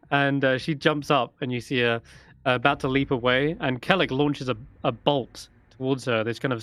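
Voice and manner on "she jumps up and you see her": ordinary talk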